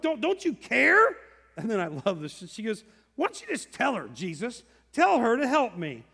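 a put-upon sister begging Jesus; complaining Martha. Acted. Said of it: "then she says".

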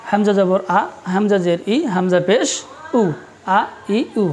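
"আ ই উ" as ordinary open vowels; normal, not hard hamza. Shown as a demonstration. Teacher separating hamza from ain for students, normal light vowels. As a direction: say "আ ই উ" easily, with no squeeze in the throat. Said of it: "এটা normally হবে, বেশি hard না".

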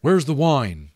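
loud, curt demand. A narrator's reading. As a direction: demand it sharply. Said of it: "he demanded of Molly".

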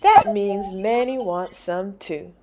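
put-on slow, loud little girl's voice; child voice. Carmelita explaining the dog, slow child voice. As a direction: say it like a pleased little girl. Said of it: "Carmelita says".

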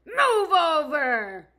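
loud, slow bear growl. Acted. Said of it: "growled Bear".

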